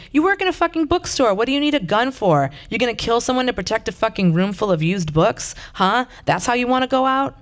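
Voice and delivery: high whining complaint, pitched well up; whined. A narrator's reading. Junkie Ted whines at Michelle about her gun. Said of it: "he whined".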